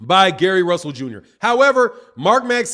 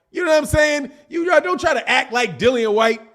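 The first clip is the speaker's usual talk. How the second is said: mock outraged shout; 4 semitones higher than usual. Real, not acted. Mock outrage at Jamaican fans.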